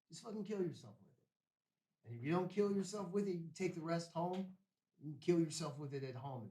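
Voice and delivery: heated retold rant at father; retold angry ultimatum. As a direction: lay down the ultimatum, rising. Raging ultimatum to his father.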